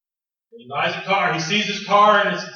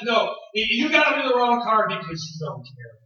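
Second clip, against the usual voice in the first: raised, hurt accusation; wife accusing husband, raised and hurt; 5 semitones higher than usual. Retold or imitated. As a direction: accuse him of not caring.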